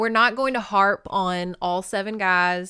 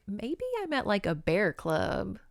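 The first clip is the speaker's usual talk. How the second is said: pondering; 6 dB quieter than usual. Retold or imitated. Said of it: "And she's like".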